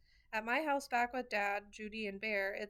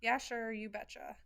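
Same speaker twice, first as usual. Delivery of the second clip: Minnesota accent. Shown as a demonstration. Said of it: "than the flat Minnesota accent".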